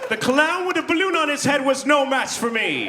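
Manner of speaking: high, slow gloating champion; triumphant boast. Retold or imitated. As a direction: crow like a conquering hero. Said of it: "I was like".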